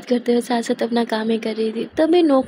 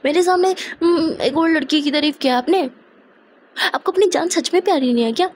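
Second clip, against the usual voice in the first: raised, higher-pitched jealous scolding; jealous anger; 5 semitones higher than usual. Acted. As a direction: scold him like a jealous girlfriend. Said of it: "इतना गुस्सा क्यों कर रही हो".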